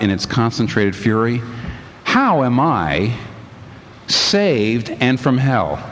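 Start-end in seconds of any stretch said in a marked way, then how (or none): 2.0-5.8 slow, low and fierce, near a whisper. Retold or imitated. Mrs Turpin asking God in low fury. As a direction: press each word out in slow fury. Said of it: "in a low, fierce voice, barely above a whisper".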